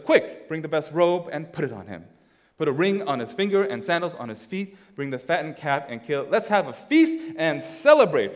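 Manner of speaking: eager father's orders. Acted. Father ordering servants to prepare a feast, eager. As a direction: lift the voice toward a celebration. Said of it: "the father said to his servants".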